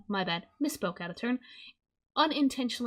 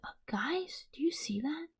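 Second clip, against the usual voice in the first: soft, high-pitched mock whisper; imitated whisper; 7 semitones higher, 4 dB quieter than usual. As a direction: whisper it softly as if imitating her. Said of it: "that's her whispering".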